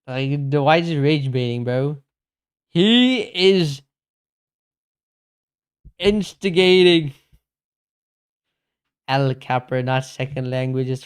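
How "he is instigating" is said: indignant outburst. Real, not acted. Indignant at a chat troll.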